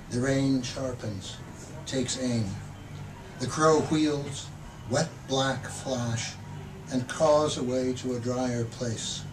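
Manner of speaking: measured, expressive poetry reading; poem reading. Acted. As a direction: read the poem like you're savouring each image. Poet reads the poem Adoption.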